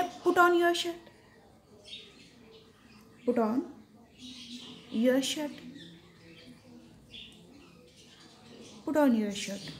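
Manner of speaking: slow, carefully spaced English phrase; slow demo phrase. Shown as a demonstration. Teacher showing students the phrase, slow and spaced. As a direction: model it slowly for learners. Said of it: "तो हम क्या बोलेंगे?".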